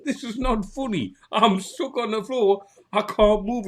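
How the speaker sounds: high, loud mock protest; acted helpless protest. Stuck drinker to laughing host, high-pitched helpless protest.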